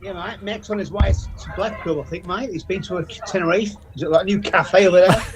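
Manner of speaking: light attempt at an Australian accent, mate and all; an Englishman trying his best Aussie accent on request; mock Australian accent. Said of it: "can you speak it in Australian for it? It's gotta be a bit slower".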